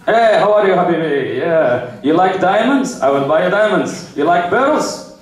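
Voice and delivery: mock Arab big spender; flirting Arab accent. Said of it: "Have you ever seen Arab guys flirt?".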